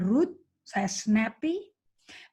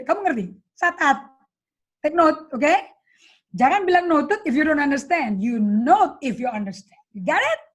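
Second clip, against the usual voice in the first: high, loud drilling questions; retelling drilling her secretary to take note; rapid-fire bossing; 3 semitones higher, 4 dB louder than usual. Retold or imitated. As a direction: fire the orders off fast. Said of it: "kecepatannya tuh duduk, duduk, duduk".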